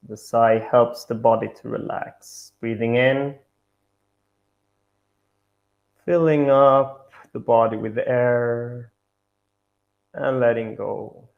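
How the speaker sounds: measured meditation guidance with long pauses; guided meditation. Acted. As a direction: guide them gently, pausing between each instruction.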